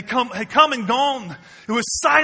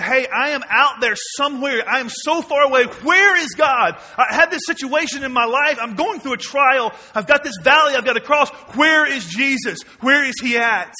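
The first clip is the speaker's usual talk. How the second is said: desperate cry; 3 semitones higher than usual. Pretend. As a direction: cry out lost and far from God. Voicing a despairing believer.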